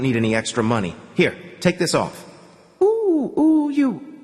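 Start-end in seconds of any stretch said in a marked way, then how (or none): 2.8-4.2 high, drawn-out moans of pleasure. Acted. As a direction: let the oohs slide up high in pleasure. Intimate moment, moaning with pleasure.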